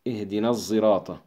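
الزراط with the ص voiced toward ز; sad with zay sound. Shown as a demonstration. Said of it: "صادا مشمة زايا". (صاد مشمة زايا في الزراط)

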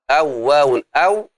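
"أو واو أو" with the last "أو" cut off by a glottal stop; broken metre. Shown as a demonstration. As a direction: scan "أو واو أو", restarting on a separate final "أو". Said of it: "ينكسر الوزن".

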